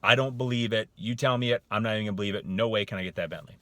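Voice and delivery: loud, insistent refusal; flat-out disbelief. Acted. Coach voicing the hidden meaning, refusing to believe. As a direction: shut the idea down firmly. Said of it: "what I'm really saying is".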